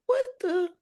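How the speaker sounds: breathless whisper of disbelief; whispered aside. Retold or imitated. Mom recalling her silent shock, whispered. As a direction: whisper it to yourself, stunned.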